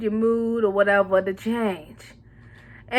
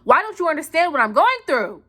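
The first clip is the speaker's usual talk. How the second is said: rushed, pleading outburst; hammed-up frustrated rant; mock exasperation; 3 dB louder, faster than usual. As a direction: plead to be understood, building to the end. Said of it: "look at you like you're crazy".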